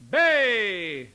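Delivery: high, loud held syllable; calling voice. Shown as a demonstration. Teacher demonstrating belted vowels, calling out. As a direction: belt it like a hail. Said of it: "it's in your calling voice".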